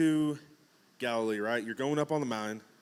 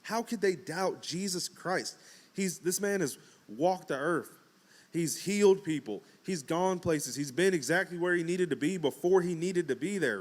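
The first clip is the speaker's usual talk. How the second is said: higher, baffled questioning; can't believe what you just read; incredulous; 5 semitones higher than usual. Retold or imitated. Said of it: "Because I'm like".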